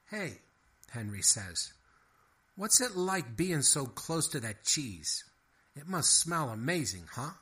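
a hint of a fast-talking mouse; Henry the mouse. A narrator's reading.

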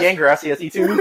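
put-on cheeky Spanish reply in a Hispanic accent; mock Hispanic accent. Older Luffy answering the wrong question, mock Hispanic accent. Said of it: "a real hardcore Hispanic accent".

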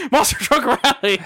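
monster truck ad. Pretend. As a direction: yell it like a monster truck commercial.

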